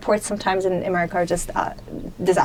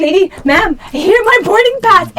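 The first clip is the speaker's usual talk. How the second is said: higher, louder, slow desperate pleading; begging the gate agent, drawing out the words; desperate plea; 8 semitones higher, 6 dB louder, slower than usual. Retold or imitated. Retelling how she begged the gate agent to take her pass, high, loud and desperate.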